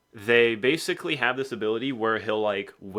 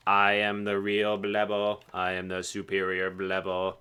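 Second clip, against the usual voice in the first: boastful rival character; 2 semitones lower than usual. Acted. Huag claims to be the real Blebo, lightly voiced boast. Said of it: "who's basically like".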